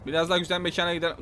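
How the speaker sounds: quick throwaway echo to himself; fast quiet repeat. Real, not acted.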